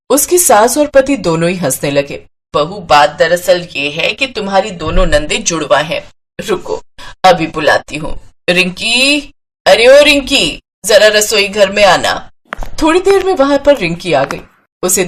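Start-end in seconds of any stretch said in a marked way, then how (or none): 2.5-8.2 lightly voiced mother-in-law. 8.5-12.3 calling someone from another room; drawn-out summons, pitch lifting on the second call. Acted. Calling Rinki into the kitchen.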